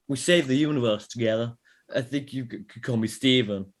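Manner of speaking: a light stab at Doctor Strange's calm; a failed Doctor Strange voice, mostly his own; Doctor Strange impression. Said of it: "Doctor Strange impression?".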